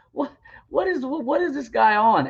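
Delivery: high-pitched, stumbling disbelief; baffled, restarting the question as the pitch jumps up; incredulous. Real, not acted. Speaker baffled at being asked about his faith, incredulous.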